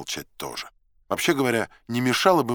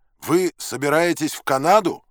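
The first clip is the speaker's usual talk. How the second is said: loud, high yelled question; raised, high-pitched shout; yelling; 7 semitones higher, 7 dB louder than usual. A narrator's reading. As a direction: bellow the question to be heard. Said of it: "заорал я".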